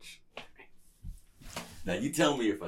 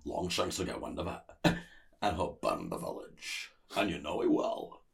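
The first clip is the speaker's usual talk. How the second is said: put-on practised film line in a shaky-grade Scottish accent; attempted Scottish accent; 5 semitones lower, 4 dB quieter than usual. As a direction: do an earnest but bad Scottish warrior. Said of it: "this is the line that I practiced".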